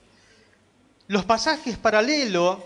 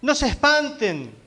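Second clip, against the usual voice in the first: preacher's acted call to the frightened, higher pitched; retold reassuring call; 4 semitones higher than usual. The Lord to frightened disciples in the storm, retold reassuring call. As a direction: imitate the Lord calling out, voice lifted higher. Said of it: "el Señor le dice".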